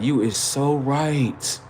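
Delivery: slow, drawn-out agreement; lightly voiced woman, dragging out her approval; admiring woman. Comic voicing the girl looking over at him, slow admiring agreement. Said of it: "She over there looking like".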